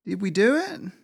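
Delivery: high-pitched character voice, questioning; dazed squirrel heroine. A narrator's reading. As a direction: ask in a high little voice after a tumble. Dazed heroine asks after escape.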